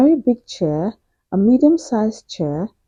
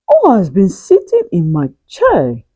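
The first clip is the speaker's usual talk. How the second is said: medium-sized voice; 2 semitones lower than usual. Acted. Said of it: "she asked in a medium-sized voice".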